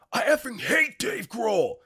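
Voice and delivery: high, drawn-out imitation of a furious scream; hammed-up outburst of rage; mock scream. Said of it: "was to deadpan and scream out".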